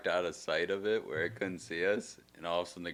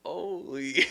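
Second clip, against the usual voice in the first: calling out; 11 semitones higher, 4 dB louder than usual. Retold or imitated. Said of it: "she's like".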